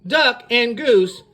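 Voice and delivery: slow, drawn-out sign-off; show announcer. Real, not acted. Show sign-off with name stretched.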